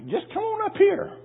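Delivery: calling them forward. Retold or imitated. Pastor calling scattered people forward.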